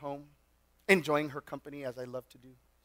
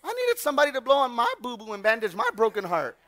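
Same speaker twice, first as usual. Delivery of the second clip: mock heartbroken; 5 semitones higher, 5 dB louder than usual. Mock self-pity after daughter's snub.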